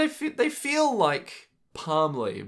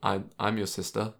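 mock creepy sister; 5 semitones lower, 5 dB quieter than usual. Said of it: "it's like".

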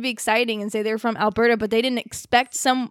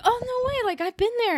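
much higher, eager "no way"; mock excited gush; 11 semitones higher than usual. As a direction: play the thrilled tourist. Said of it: "I was like".

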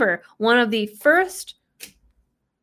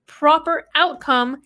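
sarcastic air quotes; 4 semitones higher, slower than usual. Retold or imitated.

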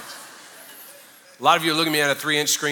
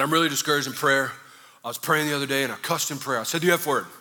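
confession that cracks into laughter; retold confession, laughing; 3 dB louder than usual. Discipled friend confessing at lunch, ending louder and laughing.

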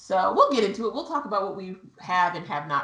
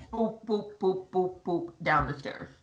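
bumping sound effect; 5 dB quieter, slower than usual. Retold or imitated. Imitating bumping down stairs.

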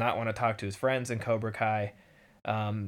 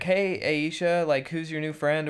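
voicing Sam; 5 semitones higher than usual. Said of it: "Sam's like".

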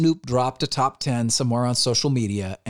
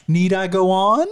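high, loud, drawn-out rhetorical question; imitating a rapper; 7 semitones higher, 6 dB louder than usual. Retold or imitated. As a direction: mimic the rapper's exasperated challenge, rising at the end. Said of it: "That's so him".

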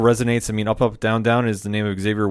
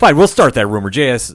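mock-serious declaration; 2 semitones higher, 7 dB louder than usual. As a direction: proclaim it with a poker face. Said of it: "can't do it with a straight face".

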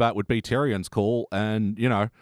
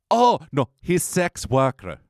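sudden correction; 5 semitones higher, slower than usual. Acted. Woke version of the courtroom mix-up, dawning realisation. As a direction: burst in, then spell it out slowly.

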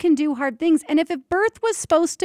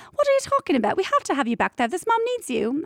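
put-on British accent; 4 semitones higher, faster than usual. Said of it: "He was from London".

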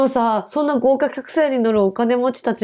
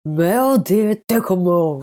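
clumsy French attempt; much slower than usual. Shown as a demonstration. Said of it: "You gotta work on your accent a bit".

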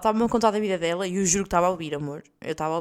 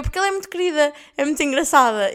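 higher, louder placating praise; sweet cover-up; 3 semitones higher, 4 dB louder than usual. Retold or imitated. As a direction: gush to smooth things over, mock-sweet. (elogio fingido, em tom doce)

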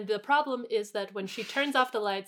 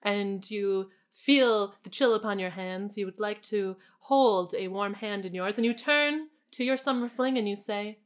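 hushed suspenseful narration. Pretend. Mock-epic retelling of cuffing season.

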